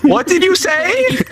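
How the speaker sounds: high, incredulous rising question; stunned disbelief. Retold or imitated. Trainee stares at the girl who talked back, stunned disbelief. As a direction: act aghast, voice shooting up at the end. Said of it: "I look at her like".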